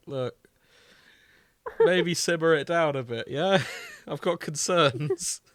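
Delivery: gentle fatherly advisor. Pretend. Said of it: "he's just here to be like".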